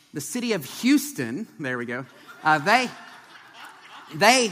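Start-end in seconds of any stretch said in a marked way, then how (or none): 0.8-1.5 "Houston" with H and U sounded together; careful Houston pronunciation. Shown as a demonstration. Preacher showing his practiced word to the congregation, careful "Houston" with the H sounded. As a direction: say "Houston" with a deliberate, higher-pitched H-plus-U. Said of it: "I do not say the H and the U sound together".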